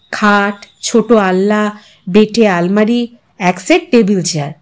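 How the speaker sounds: usual speaking voice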